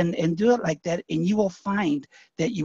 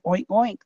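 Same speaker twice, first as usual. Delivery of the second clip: mock oink; 3 semitones higher than usual. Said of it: "when he said".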